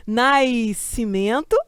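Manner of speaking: Nascimento slowed right down as nais-cimento, with an i glide; wrong pronunciation. Shown as a demonstration. Teacher mocks the carioca way of saying Nascimento. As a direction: stretch Nascimento out, sounding an i before the S. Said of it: "não é assim que pronuncia".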